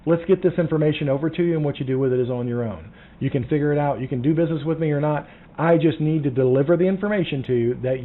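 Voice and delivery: fast, businesslike and a bit pushy; brisk no-nonsense. Shown as a demonstration. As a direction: rush through like a busy agent. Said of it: "No, it's never gonna happen".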